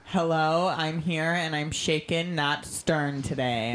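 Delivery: thin, tinny sound with no bass; like talking inside a tin can. Real, not acted. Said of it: "you sound like you're in a, a tin can".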